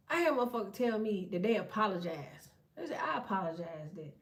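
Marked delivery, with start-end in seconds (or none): 3.0-4.1 lower, much softer, very slow mocking; mock prim apology. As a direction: drag out their fake apology in a hushed sneer.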